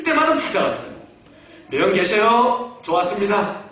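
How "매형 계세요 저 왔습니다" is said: higher-pitched, drawn-out hello at the door; re-enacted eager visitor's call; calling out a greeting. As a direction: announce yourself to your brother-in-law. Acting out his persistent visits.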